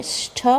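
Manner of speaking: ष्ठ said as one joined cluster; joined consonants. Shown as a demonstration. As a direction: run ष into ठ in ष्ठ with no vowel between. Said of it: "जोड़ के बोलेंगे".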